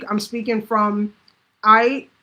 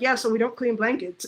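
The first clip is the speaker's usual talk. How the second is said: polite customer voice. Retold or imitated. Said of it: "when I'm speaking to them".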